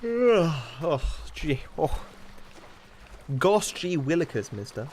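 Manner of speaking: put-on wholesome 1950s kid. Corny old-timey exclamations.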